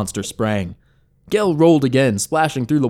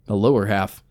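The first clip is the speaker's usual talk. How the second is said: hushed whisper. A narrator's reading. Narrator hushes grim discovery.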